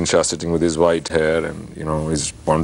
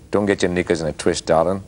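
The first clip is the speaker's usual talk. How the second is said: nasal Aussie accent. Shown as a demonstration. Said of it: "if I speak it in a nasal way".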